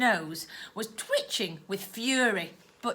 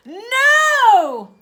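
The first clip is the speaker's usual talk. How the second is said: much higher and louder cry; protesting shout; 12 semitones higher, 12 dB louder than usual. Acted. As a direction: refuse outright. Girl refuses.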